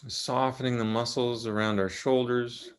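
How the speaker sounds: calm, unhurried guidance with long pauses; measured meditation-teacher delivery; guided meditation. Real, not acted. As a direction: ease listeners gently into the body, leaving long silences. Leads a guided body meditation.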